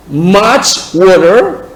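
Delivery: "water" with an American flapped t and r; slow American-accented "water" for repetition; accent américain. Shown as a demonstration. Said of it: "Là, c'est accent américain". (« water » avec l'accent américain)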